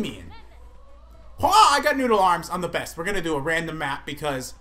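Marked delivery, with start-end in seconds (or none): 1.4-2.5 slightly higher hammed boast; a hint of a cocky fighter; character voice. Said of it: "I'm gonna be the beautiful Min Min".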